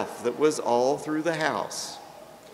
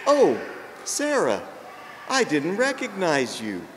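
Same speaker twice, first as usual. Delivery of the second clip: lightly voiced God, caught off guard; mock surprise from God at the pearly gates; surprised God; 4 semitones higher than usual. God startled by Sarah's facelift.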